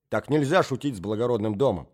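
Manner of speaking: firm, weighty scolding; stern rebuke. Acted. Marya Alexandrovna rebukes the prince, stern. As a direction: lay down the law.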